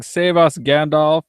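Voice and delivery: lightly acted cry for help; mock shout. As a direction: call out for rescue, half in earnest. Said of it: "I'm shouting".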